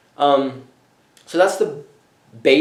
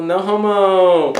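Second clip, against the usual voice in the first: drawn-out no homo; 5 semitones higher, much slower than usual. Retold or imitated. College Kid answers dying girl.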